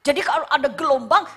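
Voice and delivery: normal talking voice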